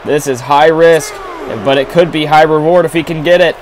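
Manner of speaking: excited. Real, not acted. High-risk move being called.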